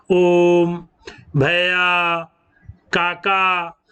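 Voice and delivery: ओम, भैया, काका each with the last vowel held; pluta examples. Shown as a demonstration. Teacher listing pluta words for students, vowels stretched. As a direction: hold the final vowel of each word three beats. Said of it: "तीन गुना मात्रा लग रही है".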